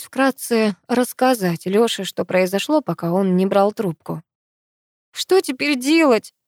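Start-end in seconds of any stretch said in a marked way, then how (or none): 5.1-6.3 high, slow, weeping question; crying. A narrator's reading. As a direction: cry out the helpless question. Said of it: "плакала я".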